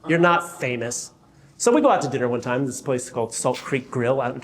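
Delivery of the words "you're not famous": wife's voice. Retold or imitated. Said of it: "She's like".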